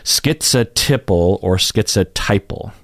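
"Schizotypal" with tip, then "schizotypal" with tie; ti versus tai. Shown as a demonstration. Teacher repeating both third-syllable options. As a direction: say it short ti, then long tai. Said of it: "What did I say? Ti, ti?".

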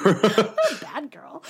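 said through a laugh, slow. Retold or imitated. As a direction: laugh the line out. Repeating Ramona's line laughing.

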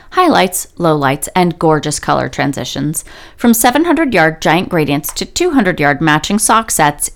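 upbeat sponsor read, a touch fast. Acted. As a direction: read it like a podcast ad. Reads sponsor ad.

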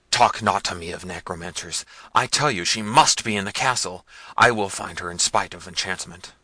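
loud, commanding tyrant's voice; Manfred raging. Acted. Prince hunting for Isabella, furious and loud. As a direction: bellow at the servants. Manfred storming through the castle.

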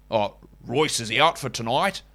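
mock American-style fake Australian; bad Australian accent. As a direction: imitate a botched Australian accent. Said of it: "how Americans doing bad Australian accents sound".

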